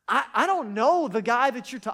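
loud, heated denial; cornered man's furious shout; angry outburst. Retold or imitated. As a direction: shout him down. Peter's third, heated denial.

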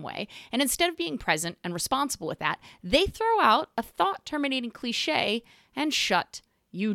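worked up, pitch jumping on key phrases; fired up. Real, not acted. Venting about being shut down with clichés, fired up. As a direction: make the point with real heat. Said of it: "you might notice I'm pretty fired up".

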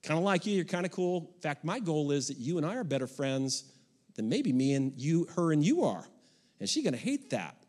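put-on calm talk to boyfriend. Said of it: "I have no problem to say to any young guy".

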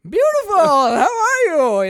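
high, loud, slow fake tenderness; hammed-up fake charm. Sam greeting the widow, overdone fake charm. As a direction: lay the charm on thick. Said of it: "He's like".

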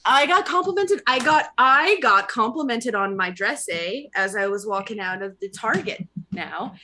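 playful mock Canadian accent; lightly hammed-up Canadian accent. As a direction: put on Canadian vowels for the story. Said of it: "finish in a Canadian accent, eh".

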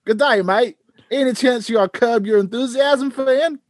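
high, hammed-up Australian voice; a jokey put-on Australian accent. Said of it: "do it with an Australian accent".

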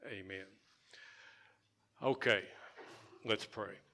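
usual speaking voice

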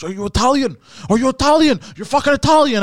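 imitating a ranting man, shouting high and loud; freaking-out yell. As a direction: escalate into a frantic, high-pitched mock rant. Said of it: "the guy started freaking out".

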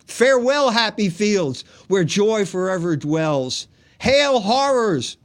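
loud, high dramatic verse recitation; grand Satanic declamation. Acted. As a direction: declaim like Satan hailing hell. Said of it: "this is what he said".

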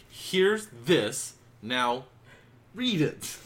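mock pushy friend.

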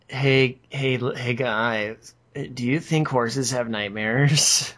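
slow, leaning-in deadpan Tina; a hint of Tina Belcher, slow. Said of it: "she'll lean in and she'll be like".

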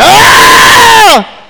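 high, loud strangled yell; a cough turned into a loud yell. Retold or imitated. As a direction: let out a sudden panicked yell. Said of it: "so I started yelling".

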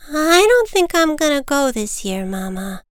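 high little voice, sinking at the end; reluctant child bird. Acted. Little Bird refuses to fly south, reluctant. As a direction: balk like a small child. Reluctant chick answers mother.

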